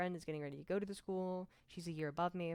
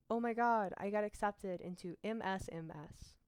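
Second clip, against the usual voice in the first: excited friend; 3 semitones higher, 4 dB louder than usual. Retold or imitated. Friend gushing over her acceptance.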